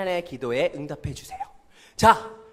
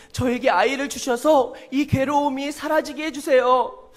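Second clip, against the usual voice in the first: earnest prayer; 4 semitones higher than usual. Acted. Hannah praying earnestly.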